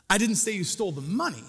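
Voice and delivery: money stressed with a falling end. Shown as a demonstration. Pastor's last emphasis example, stress on money. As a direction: finish by punching the word money. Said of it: "Four things, one phrase".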